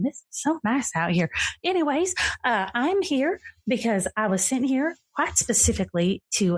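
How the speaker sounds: high, bubbly, breathless fairy lady; giddy fey woman. Acted. Fey guest greeting Charlie in the rain, high and gushing. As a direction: gush like a delighted otherworldly guest.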